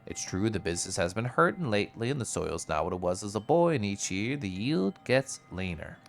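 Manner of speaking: lightly voiced grumbling farmer; a hint of a weary old farmer; farmer NPC.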